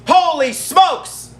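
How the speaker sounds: slow, high drawn-out holy smokes; astonished. Real, not acted. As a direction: let the disbelief stretch out. Reacting to the finish.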